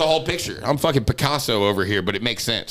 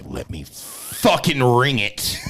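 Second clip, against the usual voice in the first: put-on drunk demand; much slower than usual. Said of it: "and I'm like".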